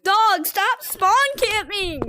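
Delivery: drawn-out exasperated plea; exasperated complaint. Real, not acted. Player to a spawn camper, exasperated complaint.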